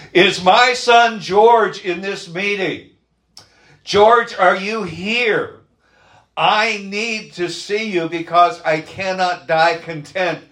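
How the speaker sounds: put-on high, slow, trembling old father; quivering old voice. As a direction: plead with a shaky, aging voice. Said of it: "in a quivering voice".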